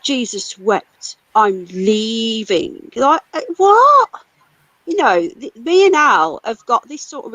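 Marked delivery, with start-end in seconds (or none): 0.0-2.9 slow, drawn-out mock of a huffy exit; mocking quote. Streamer mocks the friend who flounced out, slowly drawn out. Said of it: "It's not helpful," and". 2.9-4.1 exasperated disbelief. Real, not acted. Exasperated at the friend's remark.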